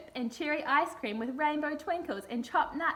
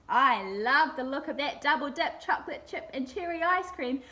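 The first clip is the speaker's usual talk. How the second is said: higher croaky crocodile voice; croaking crocodile; 4 semitones higher than usual. Acted. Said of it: "croaked the crocodile".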